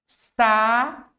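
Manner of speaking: Sábado drawn out syllable by syllable, SÁ strongest; SÁ-ba-do, each syllable held apart; stress on Sábado's first syllable. Shown as a demonstration. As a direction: split Sábado into slow beats, stressing SÁ. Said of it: "é a sílaba mais forte".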